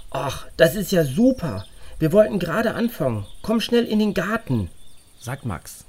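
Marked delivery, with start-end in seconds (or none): 0.1-4.7 put-on louder boy on a string phone; eager reply down a can phone; tin can phone. A narrator's reading.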